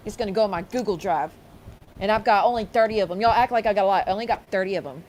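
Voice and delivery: mild mock rant of the rival; mock outrage. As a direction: play her fake fury for laughs. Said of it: "make her sound dumb".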